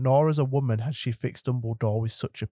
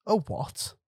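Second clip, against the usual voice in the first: puzzled; 9 semitones higher, 3 dB quieter than usual. Acted. Baffled at the odd offer.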